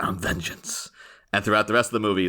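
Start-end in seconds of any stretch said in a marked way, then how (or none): 0.0-0.9 low-key husky half-whisper; Batman. Retold or imitated. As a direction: imitate a brooding vigilante under your breath. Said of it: "he comes out and he's like".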